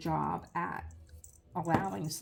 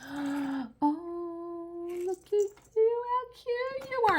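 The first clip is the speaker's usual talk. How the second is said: put-on much higher, cooing sing-song baby talk to the dogs; puppy baby talk; 13 semitones higher, much slower than usual. Gushing to two little Yorkies, much higher puppy baby talk. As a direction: coo at the puppies like they're babies.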